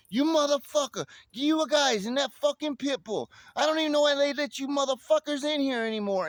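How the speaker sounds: put-on high, loud, furious old neighbor yelling. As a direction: bark it out like an angry old guy in a robe. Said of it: "starts yelling at me".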